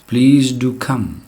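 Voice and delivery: "do" leaned on in "Please do come", said slowly; slow, with weight on "do" before "come"; stress on do. Shown as a demonstration. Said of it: "do stresses the verb come".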